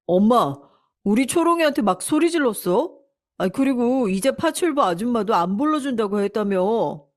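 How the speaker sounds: indignant, huffing complaint; a son storming in to protest; angry son. Acted. Son confronting his mother about his wife, indignant.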